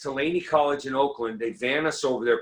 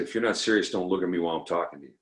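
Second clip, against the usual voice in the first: lower stern sponsor; 6 semitones lower, faster than usual. Retold or imitated. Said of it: "he said".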